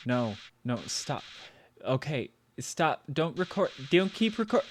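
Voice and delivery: panicked. Acted. Panicked attempt to stop recording.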